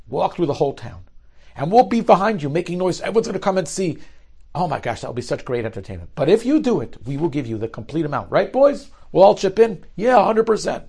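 put-on a drunk bully egging on his pals; rowdy mocking taunt. Drunk rich son taunting with cronies.

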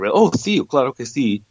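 hammed-up lispy Castilian Spanish accent; mock a Barcelona Spaniard, lisping "sí" and "gracias". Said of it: "it's kinda lispy".

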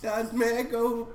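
put-on high, hesitant boyish voice; shy boy Willis. Boy greeting the scoutmaster at his door, shy and high. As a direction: stammer politely to a guest.

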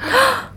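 sharp, high gasp of shock. Real, not acted. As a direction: gasp in disbelief. Shocked by the news.

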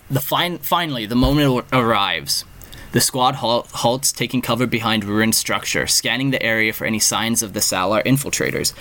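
steady storyteller read; story narration. A narrator's reading. Reading chatbot story narration.

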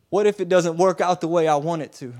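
acted troubled outburst; anxious plea. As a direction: press Jesus with the fear. Voicing a believer's anxious question.

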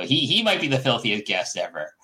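normal talking voice

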